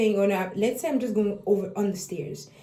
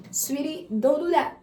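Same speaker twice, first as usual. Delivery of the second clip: put-on gentle, high coaxing to a toddler; sweet parent voice; 6 semitones higher than usual. Parent to baby at the gate, sweetly coaxing. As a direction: sing it sweetly, coaxing a child away. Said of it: "you're like".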